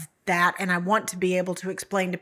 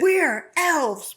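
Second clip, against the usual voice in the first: high little elf voice, playful; playful kid elf; 8 semitones higher, 3 dB louder than usual. Pretend. Host chiming in as a pretend elf, high and playful. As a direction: chirp it like a child elf.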